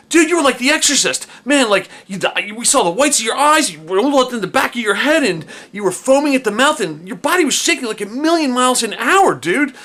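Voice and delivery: a friend hyped and freaked out telling what he saw; excited friend. Retold or imitated. Friend describing the seizure.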